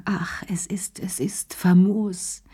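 like a last breath from the chest; hushed, airy whisper. A narrator's reading. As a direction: breathe it out in a whisper, slow at the end. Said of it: "hauchte er dieses dumme Wort".

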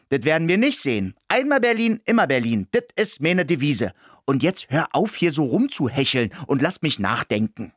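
high, quick defiant squeak; defiant mouse. Acted. Mouse defies the dog, high and fast. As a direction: snap back proudly in the mouse voice.

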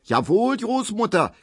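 very high accusing screech; shrill, high-pitched scold; screeching wife. A narrator's reading. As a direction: screech it at grandmother. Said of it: "kreischt Frau Ziebland".

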